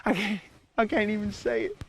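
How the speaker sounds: put-on cowboy accent. Apologizing to fans and Amanda, in fake Texan accent. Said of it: "I don't even have an accent".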